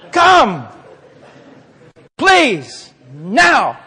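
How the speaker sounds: hammed-up calls to someone who won't budge; mock-insistent summons; mock commanding. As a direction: call out each word as its own order.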